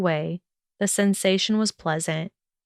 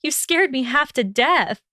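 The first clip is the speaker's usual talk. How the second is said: startled; 6 semitones higher than usual. A narrator's reading. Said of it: "catching her startled breath".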